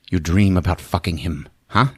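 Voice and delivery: low, soft needling menace; creepy taunt. Retold or imitated. Voicing Paul's creepy taunting.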